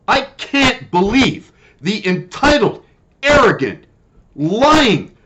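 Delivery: seething, spelling out each insult; angry rant. Real, not acted. Furious rant about the clinic.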